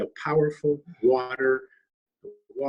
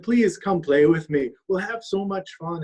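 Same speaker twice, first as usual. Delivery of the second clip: coaxing raccoon; 6 semitones higher, 4 dB louder than usual. Acted. Raccoon pleads with bird.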